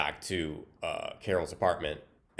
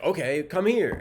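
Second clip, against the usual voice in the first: high, louder beckoning call; retold shout, pitched way up; mock calling back; 11 semitones higher, 6 dB louder than usual. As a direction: imitate yelling back to someone across the woods. Calling back to yelling woman.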